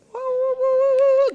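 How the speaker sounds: high, loud woo cheer. Real, not acted. Leader cheering the full delegation with loud whoops. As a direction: whoop to rally the room.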